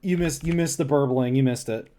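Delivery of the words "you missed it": plain reading voice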